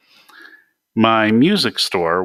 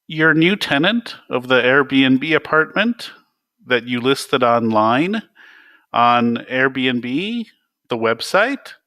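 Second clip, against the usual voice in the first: higher, each phrase rising like a question; 5 semitones higher, 3 dB louder than usual. Acted. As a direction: state the obvious as if asking. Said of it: "He said it like a question".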